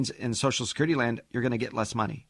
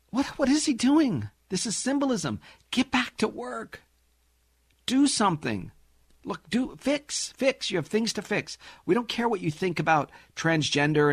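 exasperated rant; 2 semitones higher than usual. Retold or imitated. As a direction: rant at him, pitch up and pleading. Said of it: "And you look and you go".

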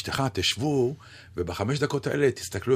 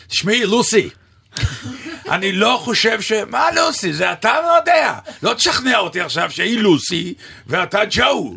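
excited shouting; 9 semitones higher, 5 dB louder than usual. Retold or imitated. Retold heated argument with laughter.

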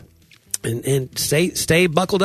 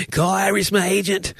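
higher, polished voicemail greeting; high put-on professional phone message; 8 semitones higher than usual.

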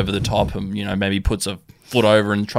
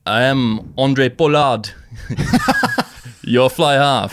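slow, louder, cracking up mid-line; laughing punchline; 4 semitones higher, 4 dB louder, slower than usual. Acted. Teller hitting the joke's last line, laughing through it.

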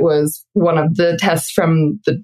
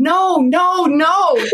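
much higher, a mild imitation of a yell; mock sleep yelling; 11 semitones higher, much slower than usual. Husband repeating the yelling she did in her sleep, in a mild mock yell. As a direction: replay a panicked cry from a dream. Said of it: "You were yelling".

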